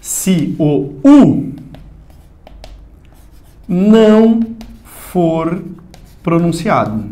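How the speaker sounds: each word set apart with long pauses; dictating slowly, stressing não; slow, spaced emphasis. Shown as a demonstration. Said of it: "Isso aqui é importante".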